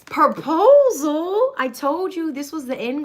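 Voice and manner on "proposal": loud, drawn-out rising announcement; excited. Real, not acted. Announcing a card to viewers, loud and stretched. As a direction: stretch the word out with a big lift.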